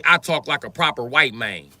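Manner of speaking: mock Southern accent. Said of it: "Other words, translation".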